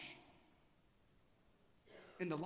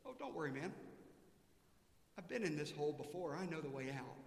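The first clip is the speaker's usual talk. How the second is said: calm and a bit softer, easygoing reassurance; reassuring; 3 semitones lower, 4 dB quieter than usual. Acted. Joe reassures his stuck friend: calm, slightly softer voice. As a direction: settle the panicked friend down. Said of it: "And Joe says".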